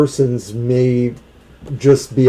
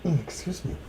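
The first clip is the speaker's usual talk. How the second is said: hiccuping between words; hiccups; 14 dB quieter, faster than usual. Real, not acted. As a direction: talk through the hiccups. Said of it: "I got the hiccups".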